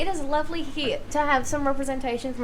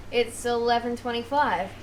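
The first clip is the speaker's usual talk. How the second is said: talking clock. Acted. The talking clock announces time.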